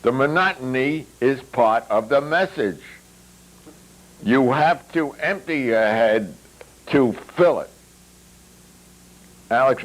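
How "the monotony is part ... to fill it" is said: higher, lecturing Mogul voice; Mogul's voice. A narrator's reading. Mogul holding forth to his table, pitched higher and preachy. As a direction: lay down the law like a guru.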